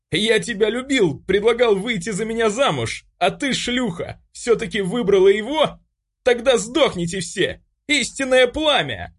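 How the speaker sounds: jilted bully screams before casting fire; frantic scream. A narrator's reading. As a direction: scream it, unhinged. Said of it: "истошно выкрикнул он".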